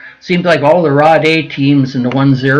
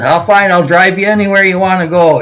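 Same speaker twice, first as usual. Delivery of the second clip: higher, hurried mock backpedal; nervous placating reply; 4 semitones higher than usual. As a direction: quickly reassure a scary boss. Retold hasty reply to intimidating Chuck.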